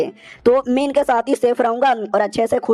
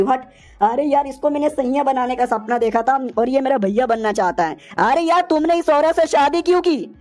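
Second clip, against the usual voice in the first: jealous outburst; 2 semitones higher than usual. Acted. Jilted witch confronts the hero, jealous outburst. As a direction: let the hurt tip into anger. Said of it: "इतना गुस्सा क्यों कर रही हो".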